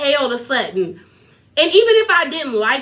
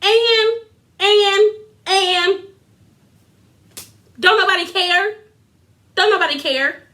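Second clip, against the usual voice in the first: high-pitched, halting disbelief; incredulous high; 6 semitones higher than usual. Real, not acted. Vlogger mocking Erica's threat, high and incredulous. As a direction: stammer "and" then ask high. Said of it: "And I'm like".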